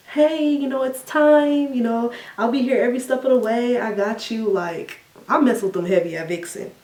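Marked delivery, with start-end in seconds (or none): 0.1-4.5 high, gentle reassuring nurse; sweet nurse voice. Retold or imitated. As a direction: comfort a nervous patient.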